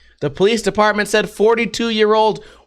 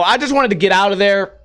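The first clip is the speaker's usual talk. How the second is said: ordinary delivery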